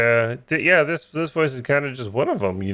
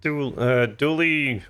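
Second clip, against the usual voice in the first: dumb guy voice; 4 semitones higher, much slower than usual. Acted. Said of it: "my go-to kinda dumb guy voice".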